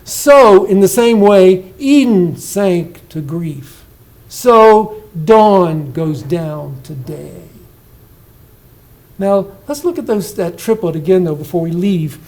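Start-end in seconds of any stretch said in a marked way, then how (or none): 0.0-7.4 Eden sank to grief read slow and louder, sinking at each line end; slow recital. Shown as a demonstration. Teacher reads the poem lines aloud, slow and sinking. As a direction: declaim it slowly, letting every line fall. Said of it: "Listen to the next two lines".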